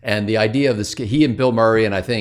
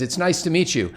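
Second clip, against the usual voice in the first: politely upbeat, pitched a bit higher; polite greeting; 5 semitones higher than usual. Retold or imitated. Joe Montana greeting the young lady, politely upbeat. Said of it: "Joe says".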